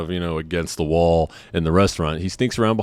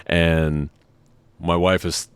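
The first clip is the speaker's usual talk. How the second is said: ordinary talk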